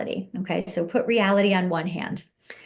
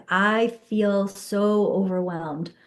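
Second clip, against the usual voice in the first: slow, heavy admission; slower than usual. Shown as a demonstration. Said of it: "saying the negative".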